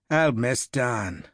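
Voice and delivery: slow, wistful Irish voice. Acted. Harper mourns his dead comrade, slow and wistful in Irish accent. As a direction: let the loss show, gently Irish. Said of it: "Patrick Harper said wistfully".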